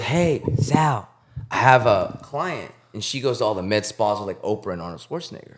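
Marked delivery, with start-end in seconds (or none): 0.0-2.7 slow Vietnamese-accent impression, pitched up; put-on Vietnamese accent, drawn out; Tuan's Vietnamese accent. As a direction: imitate the Vietnamese coworker calling you over. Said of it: "He talk like that".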